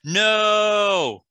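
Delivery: loud, high no; alarmed shout. Acted. Uthal shouts to stop Sizza casting, loud and alarmed. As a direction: yell to stop him mid-spell.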